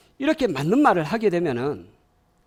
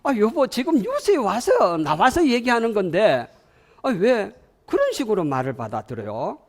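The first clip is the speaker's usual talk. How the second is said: high-pitched acted marital protest; exasperated husband; 5 semitones higher than usual. Husband protesting to wife who took advice badly, exasperated. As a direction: play an aggrieved husband, voice jumping up. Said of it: "그러면 신랑이".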